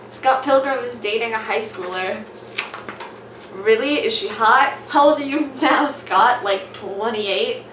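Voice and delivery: loud, hammed-up character voices; switching accents clumsily. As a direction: swap voices for each character. Reading comic aloud with character voices.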